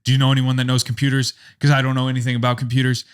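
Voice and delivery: rushed, mildly panicked retelling. Retold or imitated. Son calling his dad for computer help, mildly panicked. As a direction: hurry it out with a touch of panic. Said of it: "like, panicked".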